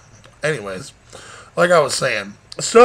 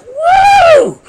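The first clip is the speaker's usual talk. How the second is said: very high loud cheering whoop; shrieking celebration yell; wild whoop; 11 dB louder than usual. Pretend. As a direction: let out a crazy party whoop. Fat man cheering.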